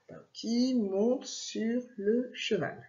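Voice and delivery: steady, slow read of the sentence; slow dictation reading. Shown as a demonstration. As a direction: dictate it calmly for a child.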